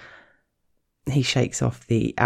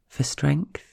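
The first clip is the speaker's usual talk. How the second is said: whispered; 4 semitones higher than usual. Acted. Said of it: "she says".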